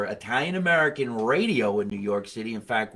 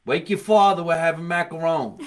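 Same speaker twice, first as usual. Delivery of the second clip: high, loud yell through the house; calling mother; 6 semitones higher, 8 dB louder than usual. Retold or imitated. Comic recalls mother calling the family to dinner, high loud holler. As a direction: holler it like an Italian-American mother. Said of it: "My mother said".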